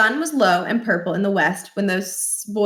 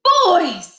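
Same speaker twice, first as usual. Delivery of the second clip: calling out; 10 semitones higher, 6 dB louder than usual. A narrator's reading. Barkin calls out.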